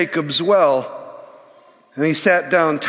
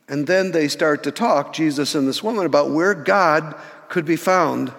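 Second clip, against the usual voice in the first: usual speaking voice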